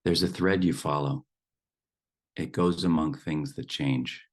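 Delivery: measured poem reading, a pause after each line; poem recitation. Acted. Teacher shares a dear poem with the group, measured recitation. Reads the poem a second time.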